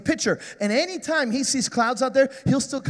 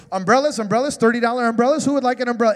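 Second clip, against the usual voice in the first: vendor calling out; 4 dB louder, faster than usual. Retold or imitated. Vendor hawking umbrellas in rain.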